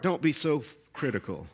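quiet and low, said gently to the heart; soft inner voice. Acted. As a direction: let it land softly, like a voice within.

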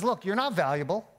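a preacher voicing the enemy's scorn, not a whisper; enemy's taunt. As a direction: jab each "not" like a sneering accuser. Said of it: "he says".

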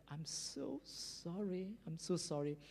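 soft, slow acted apology; whispering to himself. Preacher voicing the prisoner sorry to God, whispering to himself. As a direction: murmur it slowly, full of remorse. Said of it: "he was whispering to himself".

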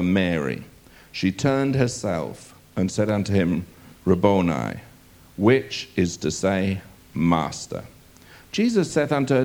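measured, solemn King James reading; scripture reading. Acted. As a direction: read the Gospel passage deliberately to the congregation. Preacher reads John's Gospel aloud.

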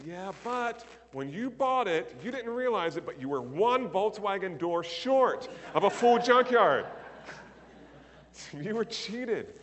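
laughing punchline. Retold or imitated. Joking punchline in quoted voice.

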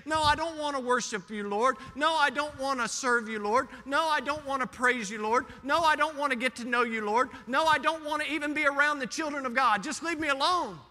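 mock-defiant, insistent complaint; defiant refusal. Churchgoers refusing the Lord's worship, mock defiant. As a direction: push the Lord away in a rising protest.

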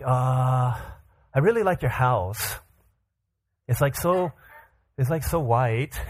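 put-on hesitant, halting kid making small talk; tongue-tied schoolboy; awkward small talk. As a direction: stall between phrases as if searching for words. Awkward child meeting the President.

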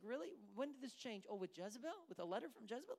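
mock incredulity. God answering Elijah's complaint about Jezebel, mock-incredulous. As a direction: question him with teasing disbelief.

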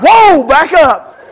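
loud, high, slow mock alarm; a kid suddenly scared off; startled backing off. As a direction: recoil in hammed-up shock. Bully's reaction to helicopter threat.

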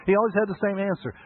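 high, loud, beaming greeting; joyful Jerry. Retold or imitated. Preacher voicing Jerry's cheery answer, high and loud. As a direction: sell it like the happiest man alive. Exuberant restaurant owner Jerry quoted.

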